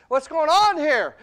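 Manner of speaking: preacher's shouted repeat; shouted question. Shown as a demonstration. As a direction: hit the repeat hard. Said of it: "repeated louder".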